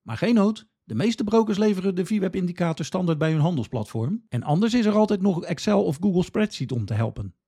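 ordinary talk, nothing marked

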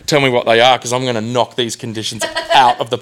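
overexcited bragging that climbs into a shout; excited outburst. Acted. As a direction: build from eager to high, loud, full-blown ranting. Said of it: "got a bit excited when she said".

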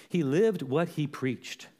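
slow, measured statement; slow emphasis. Real, not acted. Preacher tells the church how Paul lived, deliberate. First take of a repeated line.

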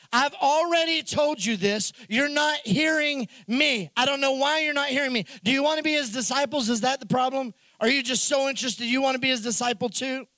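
exasperated, a bit fast in places; lightly voiced annoyed man, too many questions; frustrated smart aleck. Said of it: "I read it as he's frustrated".

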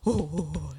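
mock triumphant ape hoots; chest-beating hoots. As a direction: hoot like a chest-beater, half-hearted. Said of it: "beat my chest".

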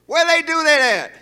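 incredulous scoff. Real, not acted. Preacher questioning the flower story as comfort, high and incredulous. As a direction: throw it out high in disbelief.

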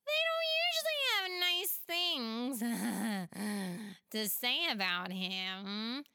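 put-on a playful kid offering help; giggly child voice. Pela offers to help friends, giggly child voice.

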